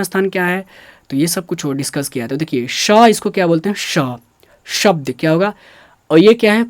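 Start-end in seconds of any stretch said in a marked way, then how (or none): 2.7-2.9 "श" said as a clear hushing sh; palatal sh. Shown as a demonstration. Teacher showing students the letter, pure palatal "श". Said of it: "शुद्ध उच्चारण मैं कर रहा हूँ". 3.8-4.0 "श" said as a clear hushing sh; palatal sh. Shown as a demonstration. Teacher showing students the letter, pure palatal "श". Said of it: "शुद्ध उच्चारण मैं कर रहा हूँ".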